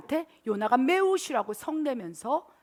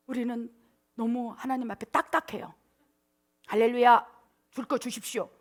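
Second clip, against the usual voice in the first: normal talking voice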